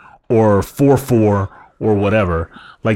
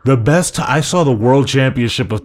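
mock pep talk; 3 semitones higher than usual. Mock pep talk as the hacker boss.

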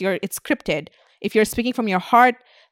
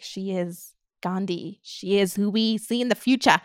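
mock adoring fan; 4 dB quieter, slower than usual. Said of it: "where you're like".

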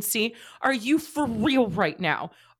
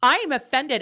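mock offended; 4 semitones higher, 5 dB louder than usual. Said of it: "As our resident content therapist".

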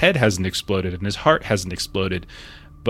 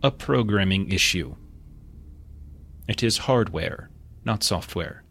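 muffled voice; 4 dB quieter than usual. Acted. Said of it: "muffled voice".

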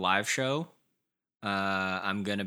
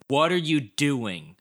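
body complaining; 4 semitones higher, 4 dB louder, much slower than usual. Retold or imitated. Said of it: "my body was like".

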